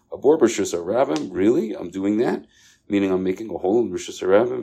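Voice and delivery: student stunned to be told off, asking back; surprised echo. Retold or imitated. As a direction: throw the words back in disbelief. Student echoes rebuke in disbelief.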